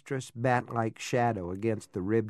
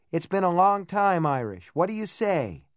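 higher, louder teasing call; 7 semitones higher, 4 dB louder than usual. A narrator's reading. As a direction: call across the water playfully. Jo calling from the float.

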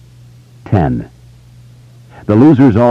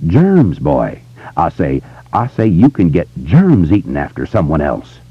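Foghorn Leghorn Southern drawl. Retold or imitated. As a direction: ham up a cartoon Southern rooster gentleman. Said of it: "Southern gentleman voice".

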